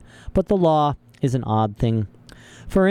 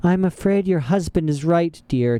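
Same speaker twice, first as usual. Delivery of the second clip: higher-pitched, regretful judge; sad; 6 semitones higher than usual. A narrator's reading. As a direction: break bad news with mild sorrow. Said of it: "Justice Strauss said sadly".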